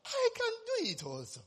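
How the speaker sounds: confident quote. Retold or imitated. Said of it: "And I was like".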